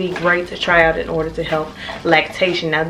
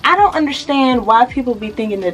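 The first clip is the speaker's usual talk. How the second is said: talking with a retainer in; slight lisp from the retainer; wearing a retainer. Real, not acted. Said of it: "I have my retainer in right now".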